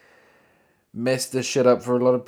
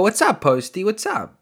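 higher, eager fanboy voice; mock excited greeting; 9 semitones higher, 3 dB louder than usual. Fan greets a singer on the phone, giddy and higher. Imagined own reply to the singer.

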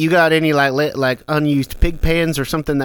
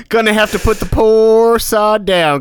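mock solemn verdict; 5 semitones higher, 5 dB louder than usual. Mock-grave joke about the character.

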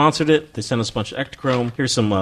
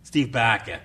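put-on Cockney accent; slower than usual. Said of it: "in Cockney".

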